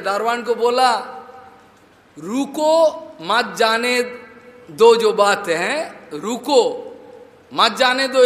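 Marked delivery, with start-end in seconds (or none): 2.2-8.2 रुको stands alone, then मत जाने दो follows; pause after रुको. Shown as a demonstration. Preacher showing what the master meant to say, pause after रुको. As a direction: stop on रुको before मत जाने दो. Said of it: "ये बोलना था".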